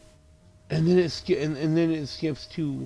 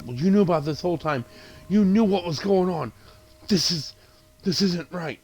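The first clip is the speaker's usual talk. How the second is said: higher-pitched retold protest; mock accusation; 5 semitones higher than usual. Woman confronts those who knew, mock upset accusation. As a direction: accuse them, lightly acted.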